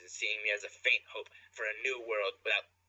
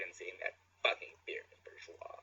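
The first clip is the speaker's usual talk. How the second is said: whispering; 3 semitones lower, 5 dB quieter, slower than usual. Acted. Whispered narration at end.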